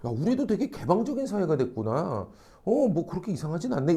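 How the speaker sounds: accepting onlooker. Acted. Tolerant bystander musing on society, softly accepting. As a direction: voice a mildly impressed bystander, softly.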